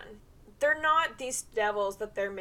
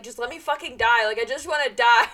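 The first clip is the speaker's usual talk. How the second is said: exasperated whine; 8 dB louder, faster than usual. Retold or imitated. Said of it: "he's like".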